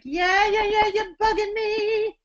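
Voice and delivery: high, annoyed, whiny yeahs; whiny attitude. Shown as a demonstration. Teacher demonstrating an irritated whiny yeah for students. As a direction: sound fed up and bugged. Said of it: "a little more attitude".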